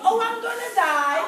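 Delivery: high, loud, laughing cheerfulness; upbeat. Retold or imitated. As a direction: imitate mom breezily announcing bad news. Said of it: "she was so upbeat".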